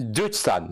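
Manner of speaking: "Deutschland" with the first vowel as "oo", like "Dootsh-land"; mispronounced Deutschland. Real, not acted. Host guessing at the accent's origin, "Deutschland" said as "Dootsh-land". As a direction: say "Deutschland" wrongly, opening like "doot". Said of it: "you mispronounced Deutschland".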